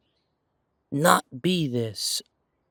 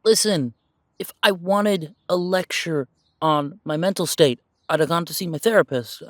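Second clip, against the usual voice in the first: irritated retort; 4 dB louder than usual. Acted. Snapping back at his partner.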